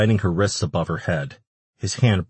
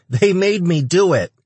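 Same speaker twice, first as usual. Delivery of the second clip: high-pitched, louder creature voice; frightened little demon; 12 semitones higher, 6 dB louder than usual. A narrator's reading. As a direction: squeal out an excuse in fear. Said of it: "the little shit stammered".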